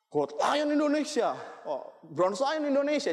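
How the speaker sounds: slow, drawn-out stage announcer voice; announcer call. Retold or imitated. Speaker mimicking the awards emcee calling names, slow announcer. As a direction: announce the winners slowly, like an emcee.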